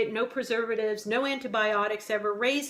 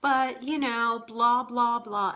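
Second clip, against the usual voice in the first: higher, slow, sugary apologetic voice; imitating the attendant; 3 semitones higher, slower than usual. Wife imitating the sweet booting guy, higher and slow. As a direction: lightly mimic an overly polite booter. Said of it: "And he goes".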